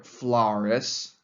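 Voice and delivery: "Flaurus" with its first vowel teasingly altered to "ow"; mocking mispronunciation. Vespasian greeting his critic, mocking "Flaurus" with "ow" vowel. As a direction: stretch the wrong "ow" vowel in "Flaurus". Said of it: "He makes fun of Florus".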